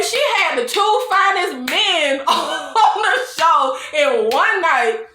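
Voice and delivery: tickled gossip, real laughter midway; amused laughing. Real, not acted. Vlogger gushing over the princess's two men, laughing. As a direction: laugh breaking into the words.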